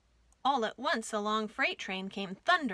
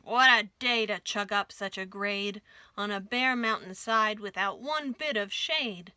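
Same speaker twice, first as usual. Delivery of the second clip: louder groaned complaint from the engine; groaning complaint; 4 dB louder than usual. Acted. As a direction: groan the words out at the grade. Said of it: "He groaned".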